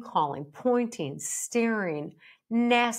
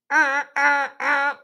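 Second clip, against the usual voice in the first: alarmed stammer; 6 semitones higher, 7 dB louder than usual. Pretend. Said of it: "That sends off big time signals".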